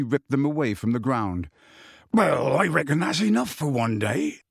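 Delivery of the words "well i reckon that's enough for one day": lightly voiced character, rising at the end; a hint of a big countryman's hesitancy; Hagrid winding up. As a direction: suggest calling it a day. Hagrid, hurt, winding up visit.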